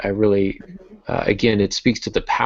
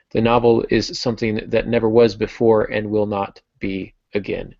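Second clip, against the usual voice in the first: quote read aloud. Acted. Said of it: "my next quote is".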